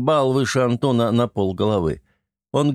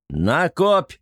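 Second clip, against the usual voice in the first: war cry; 5 semitones higher than usual. A narrator's reading. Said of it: "воинственный клич".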